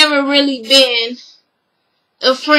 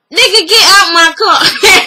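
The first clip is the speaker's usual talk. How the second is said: raised-pitch mock demand, half laughing; exasperated order; 5 semitones higher, 3 dB louder than usual. Recapper acting out kicking him out of the car, exasperated.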